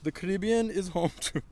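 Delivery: put-on Caribbean accent. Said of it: "in a Caribbean accent".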